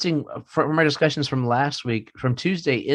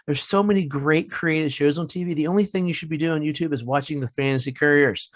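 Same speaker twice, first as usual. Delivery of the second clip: mildly exasperated dad, pitch lifted at the start; mock parental frustration; 3 semitones higher than usual. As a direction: act out a frustrated parent scolding the kids. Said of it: "I just get frustrated".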